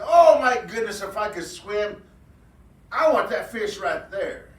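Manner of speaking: high, loud excited rabbit voice; a rabbit spotting a huge fish, thrilled. Acted. Rabbit jumps up seeing the big fish, high and excited.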